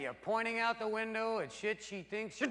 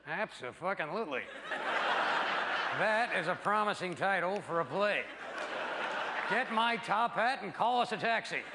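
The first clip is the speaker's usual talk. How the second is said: mock enthusiasm; 3 semitones lower than usual. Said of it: "sarcastic boyfriend reply".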